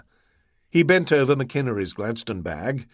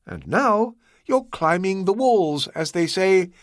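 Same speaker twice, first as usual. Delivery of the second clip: higher, courteous voice of the host; Ah Wong, polite host; 7 semitones higher than usual. A narrator's reading. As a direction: play the composed, obliging host, pitched up.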